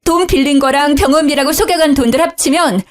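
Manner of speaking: high, upset outcry; angry wailing. Acted. Wife crying out in anger to her father-in-law. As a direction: pour out the betrayal in rising anger. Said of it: "저는 화가 나서 울부짖었죠".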